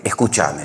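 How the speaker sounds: "escúchame" stressed late, on the cha; Argentine stress. Retold or imitated. Puzzled Spaniard repeats the pastor's word, "escúchame" with Argentine stress on cha. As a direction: say "escúchame" Argentine-style as escuchÁme. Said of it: "los españoles no decimos escúchame".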